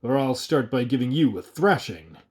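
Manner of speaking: the mayor putting a ragged man in his place; indignant. Acted. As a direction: threaten him with a thrashing. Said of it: "the indignant burgomaster replied".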